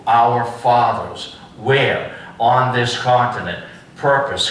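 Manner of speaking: slow, measured speech recital; deliberate oratorical delivery; formal recitation. Shown as a demonstration. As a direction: recite it phrase by phrase with weighty pauses.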